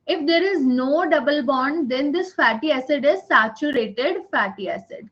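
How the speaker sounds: very slow, every word spaced for note-taking; teacher dictating notes word by word; slow dictation. Shown as a demonstration. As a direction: dictate it slowly so they can write. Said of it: "repeats dictation slowly".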